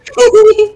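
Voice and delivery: sudden high loud laugh. Real, not acted. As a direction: burst out laughing. Laughing at friend.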